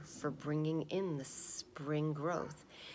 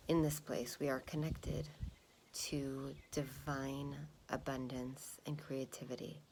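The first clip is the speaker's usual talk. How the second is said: calm grounding exercise. Acted. Meditation instruction.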